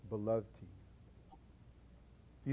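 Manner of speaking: slow, breathy whisper; whispered question. Acted. Preacher asking servers if young people are dear, whispered. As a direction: drop to a hushed whisper, searching.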